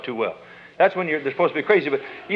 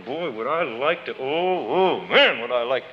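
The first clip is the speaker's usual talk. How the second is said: itching to hit; 7 semitones lower than usual. Retold or imitated. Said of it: "here's your arm going".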